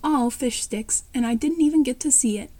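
a touch of disappointment, slowed at the start; disappointed. Acted.

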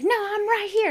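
high-pitched mock squabble; retold barking back. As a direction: act out a bully standing her ground noisily. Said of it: "barking at each other".

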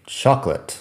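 "chocolate" as two syllables, CHOK-lit; "chocolate" squeezed into CHOK-lit; two-syllable English chocolate. Shown as a demonstration. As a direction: drop the middle vowel of "chocolate". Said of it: "son dos sílabas".

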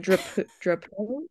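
halting attempt at "Drapeau", soft O at the end. Shown as a demonstration. Guest failing to replicate her name, "Drapeau" with tentative soft O. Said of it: "it's like a softer sounding O".

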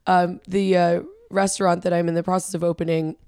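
raspy, worn-out voice; hoarse from yelling. Real, not acted. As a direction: speak through a strained throat. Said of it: "my voice is a little bit shot right now".

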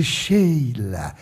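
low, soft, mildly awful voice; horrible voice. Retold or imitated. Divaldo answers the spirit Sheila, imitating his horrible voice. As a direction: imitate a bad voice, dropped low. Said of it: "mas aquele horror de voz".

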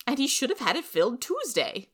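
high and loud, prim and cutting; sharp busybody. Acted. Rachel sneering at the Matsons, high and loud. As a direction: lay down the law. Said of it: "Missus Lynde replied".

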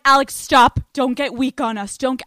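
listeners yelling a loud stop; loud half-playful stop; mock shout. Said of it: "All of you are like".

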